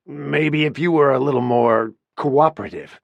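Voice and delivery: leaning hard on "cooperative" with a loaded edge; stress on cooperative. A narrator's reading. Boss hinting at favours to Winnie, stressing "cooperative". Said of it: "with emphasis on the last word".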